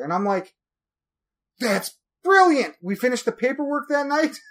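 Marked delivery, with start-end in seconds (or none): 1.6-2.8 mock amazed. Reacting to name Chatham.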